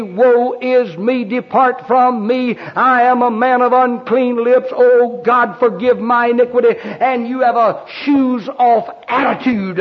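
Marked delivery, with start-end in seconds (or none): 0.0-6.8 repentant cry. Acted. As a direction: plead like a sinner in repentance. Repentant sinner's cry to God.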